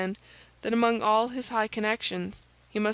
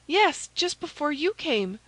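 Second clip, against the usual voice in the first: high maid's voice, informing; anxious maid Kitty; 7 semitones higher, 3 dB louder than usual. A narrator's reading. Maid reporting the spy's visits, anxious and high.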